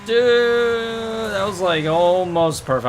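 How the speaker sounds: thrilled disbelief at a near-perfect landing; excited. Real, not acted. Near-perfect landing in racing game.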